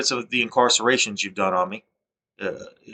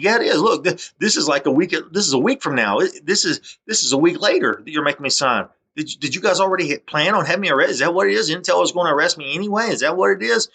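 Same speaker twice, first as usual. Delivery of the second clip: retold protest; 6 semitones higher than usual. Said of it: "I said".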